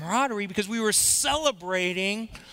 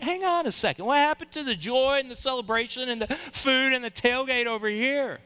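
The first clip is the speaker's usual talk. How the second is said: upset protest; 5 semitones higher than usual. Retold or imitated. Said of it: "I'm like".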